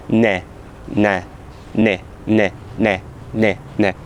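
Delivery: ne repeated with a straight soft N; Lithuanian soft N drill. Shown as a demonstration. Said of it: "I hope there is a difference".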